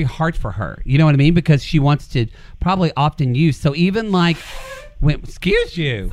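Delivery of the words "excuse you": blowing nose mid-talk; talking through a stuffed nose; neti pot rinse. Real, not acted. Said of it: "Poodle's doing a fucking neti pot during our show".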